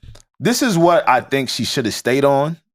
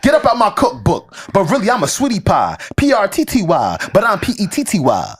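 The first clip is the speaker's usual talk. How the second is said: higher, twitchy addict rap voice; crackhead voice; 4 semitones higher than usual. Shown as a demonstration. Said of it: "I'm trying to read and crackhead, uh, tone is hard".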